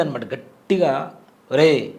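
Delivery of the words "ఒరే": slow, tender call of a mother to her son; loving goddess call. Retold or imitated. Teller recalling the goddess calling him by name, slow and tender. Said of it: "అంత ప్రేమగా ఉండేటువంటి గొంతు".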